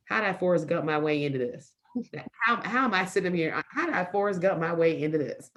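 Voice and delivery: mildly disbelieving self-questioning; imposter syndrome. Acted. Woman voicing her own imposter syndrome, mildly incredulous self-doubt. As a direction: voice a touch of self-doubt, asking yourself. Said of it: "that thing called the imposter syndrome".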